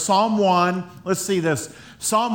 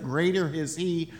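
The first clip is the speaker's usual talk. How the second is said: softer, lower quoting of scripture; quiet conviction; 3 semitones lower, 5 dB quieter than usual. Retold or imitated. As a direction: settle the voice into faith. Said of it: "we start to say things like".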